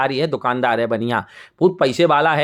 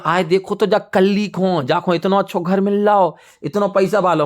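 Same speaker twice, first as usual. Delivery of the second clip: lightly acted envious sisters, pitched higher; jealous griping; 4 semitones higher than usual. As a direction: grumble enviously in a raised pitch. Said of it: "वो चिढ़ने लगीं उससे".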